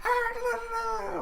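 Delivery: high wavering cartoon wail; cartoon scream. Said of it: "she sounded like a cartoon".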